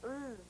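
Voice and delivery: S as a soft hiss; hissing S sound. Shown as a demonstration. Teacher modelling the S sound softly for the class. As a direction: hiss the S quietly, no vowel. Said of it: "S says".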